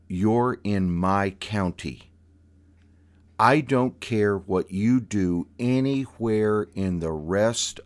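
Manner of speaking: slow, loud, firm warning; aunt warning a new driver, slow and loud; stern aunt lecture. Retold or imitated. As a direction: lay down the law like a stern aunt. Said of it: "The tone of her voice ... dropped a couple octaves".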